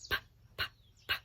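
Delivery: P, p, p as short breathy puffs; isolated p sound. Shown as a demonstration. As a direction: pop the p sound alone. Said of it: "Like you hear at the beginning".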